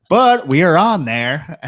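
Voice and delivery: put-on country accent. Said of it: "You got real country there".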